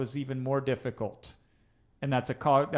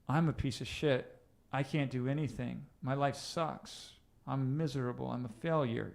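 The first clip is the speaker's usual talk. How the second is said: dejected self-talk; 5 dB quieter than usual. Shown as a demonstration. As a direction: say it quietly to yourself, beaten down. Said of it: "Change the tonality in which you speak to yourself".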